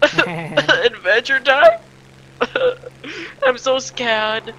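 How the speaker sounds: goofy cartoon character voice, broken by laughs; Adventure Time guy. Gamer scared of a flier, cartoon impression with laughs. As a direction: put on a silly cartoon voice, giggling. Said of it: "you sound like the guy from Adventure Time".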